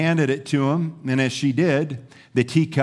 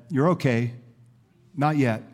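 calm, lowered, reassuring voice; gentle reassurance. Acted. Master to the dizzy clay, gently reassuring. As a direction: settle them down gently and unhurriedly. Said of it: "smiled and gently said".

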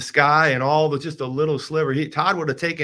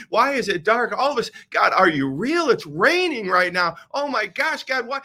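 higher, pleading and bewildered; desperate plea; 6 semitones higher, 3 dB louder than usual. Retold or imitated. Driver questioning God in the storm, high desperate pleading. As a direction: cry up at God, more and more upset.

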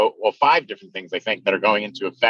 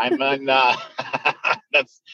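laughing; 2 semitones higher than usual. Real, not acted. Laughing at own joke.

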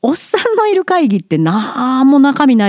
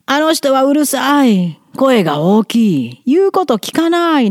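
slow, mocking imitation of complaining colleagues; mocking critics; 4 semitones higher than usual. 陰口を言う同僚たちを真似て、ゆっくり嘲るように. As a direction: lightly voice the gossiping staff, slowly. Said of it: "いっぱい言われましたよ".

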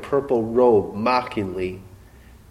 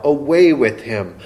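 crowd cry; 4 dB louder than usual. Retold or imitated. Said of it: "all the people cried out".

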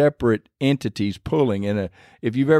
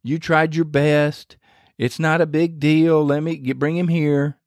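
higher, evenly pitched, placating tone; mock reassurance; 4 semitones higher than usual. Preacher voicing what Jesus didn't say, mock reassurance. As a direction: imitate someone letting the guys off easy. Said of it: "Jesus didn't say".

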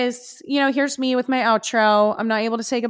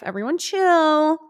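drawn-out, higher teasing "chill" on Everyone chill; mock calming; 5 semitones higher, slower than usual. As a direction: stretch out "chill" like calming a crowd, tongue in cheek. Joking she won't really be an assassin.

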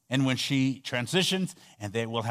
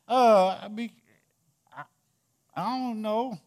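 mock flustered mourner; 8 semitones higher than usual. Mourner fumbles, high voice.

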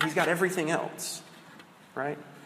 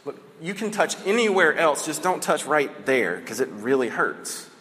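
mild pleading. Retold or imitated. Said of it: "she's just kind of freaking out".

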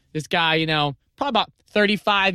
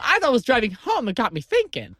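Ted voice; 5 semitones higher than usual. Retold or imitated. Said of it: "still doing your Ted voice".

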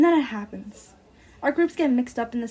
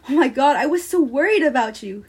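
worried rush; 3 semitones higher, 9 dB louder than usual. Acted. Friend finds narrator crying in bathroom.

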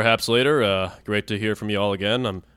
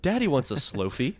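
higher mock-needy voice; creepy wheedling; 4 semitones higher than usual. Joker begging for the new phone, mock wheedling. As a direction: put on a suggestive, wanting tone. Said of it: "if you say it like that".

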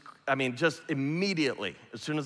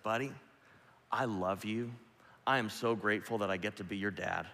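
tender reassurance; 3 semitones lower than usual. Retold or imitated. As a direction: hush it down and comfort him. Father comforting son at bedtime.

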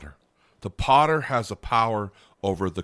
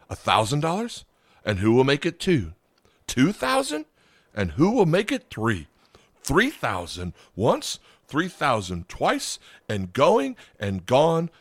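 eager auctioneer; 5 semitones higher than usual. Acted. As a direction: build the bids, then drag out going and gone. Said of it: "said he".

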